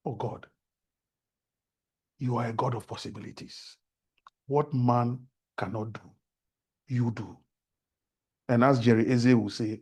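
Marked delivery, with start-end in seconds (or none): 0.1-7.4 tearful. Retold or imitated. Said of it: "dropping tears because I'm like".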